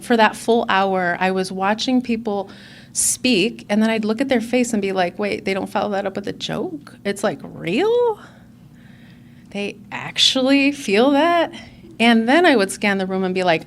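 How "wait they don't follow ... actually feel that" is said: puzzled questioning, slowing as it goes; retold wonder, each question rising at the end; mild disbelief. Recalled disbelief at sincere speakers.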